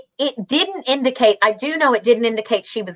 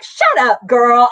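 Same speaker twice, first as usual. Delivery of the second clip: mock protest to a girlfriend; disbelieving; 3 dB louder than usual. Retold disbelief at casting news.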